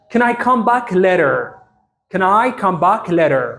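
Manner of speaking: slow, careful teacher pronunciation; each word laid out for learners to copy; slow model sentence. Shown as a demonstration. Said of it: "ብፕሮናንሴሽን ተጠቒሞም ከመይ ከም ዘንብብዎ". (ቀስ ኢልካ ብጥንቃቐ ምድምጻጽ)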